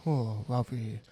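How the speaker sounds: lightly voiced Asian accent; a hint of an Asian accent, low. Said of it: "You doing the Asian accents here?".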